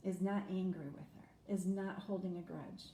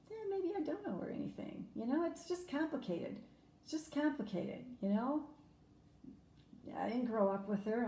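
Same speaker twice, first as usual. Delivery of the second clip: a high, pleading voice from a conflicted daughter; inner voice of doubt; 3 semitones higher than usual. Retold or imitated. Daughter voicing her old resentful thought, pitched high. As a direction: raise it up high, like someone talking herself out of caring.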